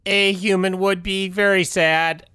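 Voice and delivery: robot voice. Acted. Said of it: "Robot Tim".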